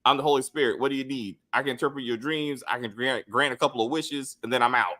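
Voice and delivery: lightly mocking, low deity voice; a hint of robotic holy messenger, pitched low; a gospel artist. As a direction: mildly imitate an otherworldly gospel figure granting wishes. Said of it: "he don't talk like a regular person".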